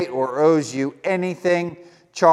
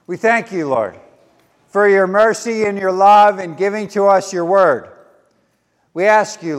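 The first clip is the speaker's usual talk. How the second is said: measured, earnest prayer aloud; public prayer; 2 semitones higher than usual. Real, not acted. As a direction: lead the congregation in prayer. Leads a prayer.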